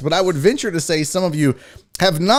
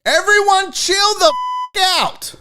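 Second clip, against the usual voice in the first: high mock yell cut by a bleep; hammed-up plea with a bleeped swear; bleeped order. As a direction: call for calm, curse censored. Plays with the bleep again.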